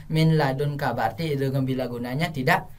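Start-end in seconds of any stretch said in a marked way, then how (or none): 0.1-0.9 brisk "min ladunka" with no held L; wrong reading example. Shown as a demonstration. Teacher showing what to avoid, "min ladunka" hurried and unheld. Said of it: "jangan min ladunka".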